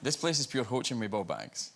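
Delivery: broad Scottish, deliberate; Scottish phrase. Shown as a demonstration. Actor repeating a Scottish phrase for a baffled listener, broad Scottish. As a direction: repeat it plainly in thick Scottish. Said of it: "I tried a Scottish phrase on her".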